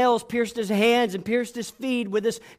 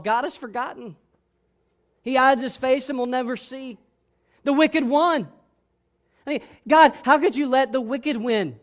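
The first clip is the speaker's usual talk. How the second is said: higher, anguished protest; crying out; 3 semitones higher than usual. Acted. Disciples crying out Psalm ten after the crucifixion, anguished protest. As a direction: build from complaint to raised cry at God. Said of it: "maybe they would cry out".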